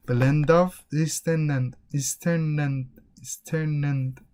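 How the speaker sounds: "Eastern and" run together as "easter-nand"; connected speech. Shown as a demonstration. Teacher showing they connect these things, linked. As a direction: link the n of "Eastern" into "and". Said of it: "they connect these things".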